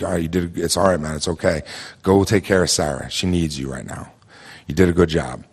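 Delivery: retold soothing words, understated; calm a shaken friend gently; gentle reassurance. Buddy hugging the shaken storyteller, gently reassuring.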